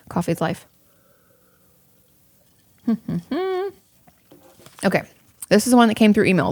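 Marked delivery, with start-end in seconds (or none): 2.9-3.7 short high giggle; quick amused laugh; light laugh. Real, not acted. Laughs after coffee joke.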